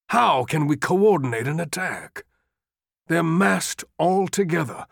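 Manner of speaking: rising, insistent appeal; urgent pleading. Acted. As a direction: press the general harder and harder. Longstreet pleading urgently with Lee.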